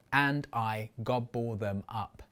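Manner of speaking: low, evenly spaced "And I gobble them up"; syllable by syllable. Shown as a demonstration. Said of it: "It only has six syllables".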